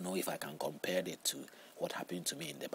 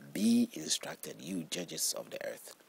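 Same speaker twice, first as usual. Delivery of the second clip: slow, much louder call to the judges; proclaimed verse; 5 semitones higher, 7 dB louder, slower than usual. Acted. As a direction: thunder it out from the pulpit.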